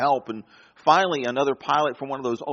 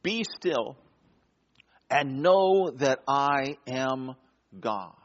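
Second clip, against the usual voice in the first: solemn scripture; 2 semitones lower, much slower than usual. Shown as a demonstration. Preacher quoting the psalm to the congregation, reverent. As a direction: let the verse settle gently. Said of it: "it says simply".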